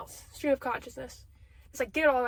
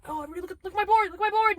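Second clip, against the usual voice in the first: manic, rising to loud excitement; lightly voiced manic Charlie at his board; Charlie impression; 4 semitones higher, 5 dB louder, much faster than usual. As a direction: do Charlie's conspiracy board rant. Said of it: "Charlie and, uh, Always Sunny, when he's like".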